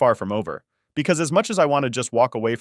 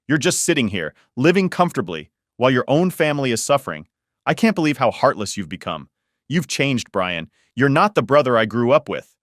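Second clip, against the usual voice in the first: angry sister tearing into her brother, a bit raised; furious accusation; 3 semitones higher than usual. Acted. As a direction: keep the fury going, accusing. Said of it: "She goes from sad to furious".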